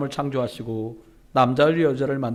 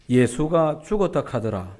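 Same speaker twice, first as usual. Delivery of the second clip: slow, light Gyeongsang dialect; Gyeongsang grandma; 3 semitones lower, slower than usual. Retold or imitated. A Gyeongsang grandmother gossiping to her friend, slow dialect. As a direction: tell it like a Gyeongsang granny passing on news. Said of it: "경상도 버전입니다".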